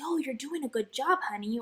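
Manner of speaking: put-on cooing baby voice.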